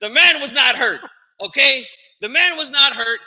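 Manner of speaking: riled up and hammering the point home; worked up. Real, not acted. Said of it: "now I'm all worked up".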